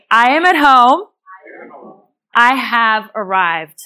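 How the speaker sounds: calm and slow, letting it land; slow calm affirmation. Shown as a demonstration. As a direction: speak it as a peaceful promise. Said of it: "So repeat after me".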